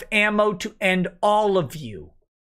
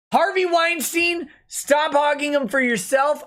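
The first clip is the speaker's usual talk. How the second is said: mock rant; 6 semitones higher than usual.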